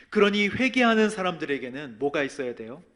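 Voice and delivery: loud, impassioned sermon delivery; rising, intense pulpit voice; fervent preaching. Acted. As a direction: preach it out with full force. Preaching at full force.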